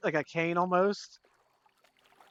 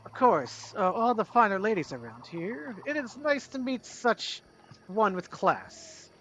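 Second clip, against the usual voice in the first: a lightly voiced flirtatious dandy, rising on fancy; flirtatious gentleman; 5 semitones higher than usual. Jean-Claude flattering the lady, lightly flirtatious. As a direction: charm her with mock gallantry. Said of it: "he's like".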